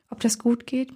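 softly murmured doubt, narrated; worried murmur. A narrator's reading. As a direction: murmur it under your breath, slightly doubtful. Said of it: "murmelte ich".

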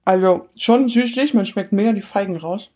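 talking while chewing; words round a bite of brownie; mouth full. Real, not acted. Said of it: "nicht mit vollem Mund zu sprechen".

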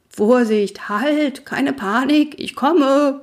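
high, urgent shouted warning; shouting pony. Acted. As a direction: call out to stop the panic. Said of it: "brüllte Schoko".

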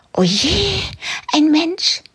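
high, startled little rabbit voice; a tiny rabbit gasping in alarm; frightened rabbit. Acted. Frightened rabbit sees a man. (hohe, erschrockene Kaninchenstimme)

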